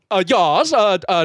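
mock Swedish, hesitant; Swedish accent. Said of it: "Yeah, yeah, Swedish".

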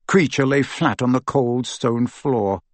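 plain reading voice

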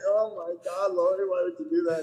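husband laughing at his wife's embarrassing photo; laughing mock disbelief. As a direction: laugh while pretending to scold her.

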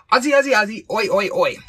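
loud, high rallying chant; calling out. Pretend. Host summons assistant with the code word, calling out. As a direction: shout it like a stadium cheer.

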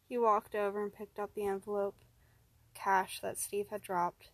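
ordinary delivery, nothing marked

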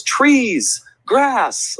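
put-on high-pitched child's answers; little girl imitation. Small girl answers a category question, imitated high child voice. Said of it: "this girl goes".

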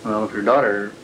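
scratchy archival tape sound. Real, not acted. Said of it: "I got this recording from the archives".

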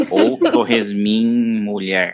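slow, laughing through the pun. Real, not acted. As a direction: chuckle out the joke slowly. Joke pun while laughing.

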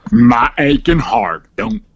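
slow, hammed-up lament with a whispered plea; melodramatic heartbroken customer. Customer wailing to the rep, hammed-up heartbreak. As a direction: ham up the aching heart like a torch song.

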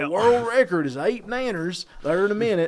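a hint of a hokey country emcee; hick MC voice. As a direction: play the small-town MC hollering at the crowd. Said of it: "makes my skin crawl talking like that".

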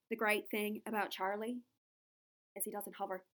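put-on Irish accent from an interview; lightly done Irish accent; Saoirse Ronan. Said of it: "so for Saoirse Ronan, I'm going to do".

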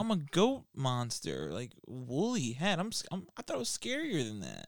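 hesitant, lightly wounded creature; self-conscious. Acted. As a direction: play an insecure monster doubting itself. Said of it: "got very self-conscious".

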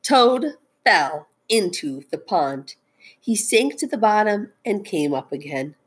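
expressive picture-book narration; storytelling. A narrator's reading. Teacher reads Frog and Toad aloud, storytelling. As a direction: read it out to children, stressing key words.

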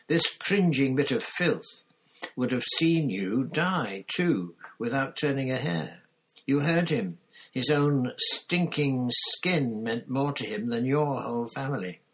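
loud, high-pitched disgusted tirade; snarl. A narrator's reading. Black warns Harry about Pettigrew's selfishness, snarling. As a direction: pour out contempt, stressing each insult. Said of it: "Black snarled".

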